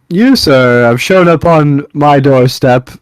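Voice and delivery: lightly declaimed, slow and loud; a touch of grand, formal speechmaking; in-character address. Acted. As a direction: proclaim it slowly to a dragon, projecting a little. Player addresses dragon in character.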